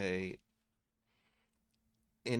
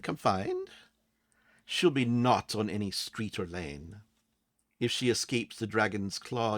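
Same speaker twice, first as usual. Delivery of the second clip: a hint of lilting riddle-giver, measured; lightly put-on fey voice delivering a rhyme; lightly voiced fey creature. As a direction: chant it gently like a fey prophecy. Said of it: "putting their arms around and says".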